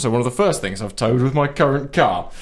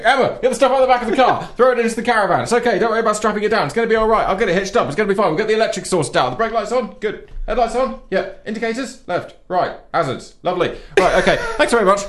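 hurried brush-off; 6 semitones higher, faster than usual. Retold or imitated. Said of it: "I was mainly going".

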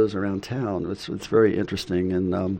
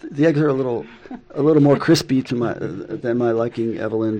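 mock-polite complaint; 2 semitones higher, 6 dB louder than usual. Husband acting out polite egg complaint.

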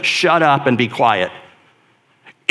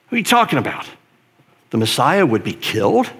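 incredulous; faster than usual. Retold or imitated. Disciples' disbelief voiced.

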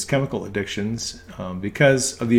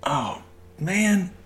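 caught out sigh; 7 semitones higher, 4 dB quieter than usual. Retold or imitated. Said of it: "He goes".

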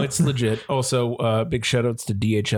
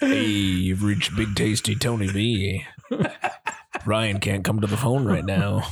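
voicemail greeting; 3 semitones lower, slower than usual. Pretend. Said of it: "Tony to record, like, a voicemail intro".

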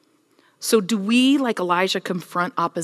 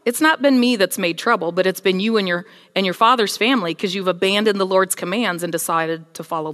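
bold prophet; 4 dB louder than usual. Acted. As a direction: push back hard, a prophet accusing a king. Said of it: "And Elijah says".

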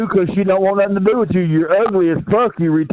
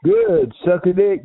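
mocking squeal; 3 semitones higher, slower than usual. Taunting the drunk caller.

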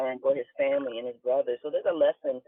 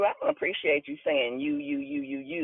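higher, playful mock indignation; mock offended; 10 semitones higher than usual. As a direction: pretend to be insulted, pointing at him word by word. Teasing Andrew with mock offense.

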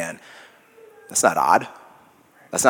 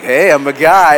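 louder and higher, over-the-top dude; hammed-up macho; 8 semitones higher, 12 dB louder than usual. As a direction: ham up the proud guy bravado. Guy mocks daily self-affirmation.

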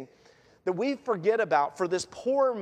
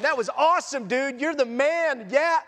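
higher-pitched mock high-five excitement; lightly hammed-up congratulation to a pal; celebrating buddy; 4 semitones higher than usual. Disciples congratulating Jesus in the boat, mock excited. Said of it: "whacking Jesus on the back going".

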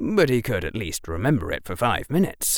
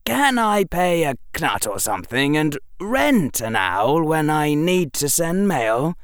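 put-on higher boyish questioning voice; inquisitive boy; 7 semitones higher than usual. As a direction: ask the professor in a lightly voiced boy's pitch. Narrator voices the boy Harry.

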